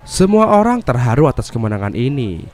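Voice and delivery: dramatic movie recap narration; narasi alur film. Acted. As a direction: narrate the plot in lively, swinging tones. (narasi rekap film yang dramatis)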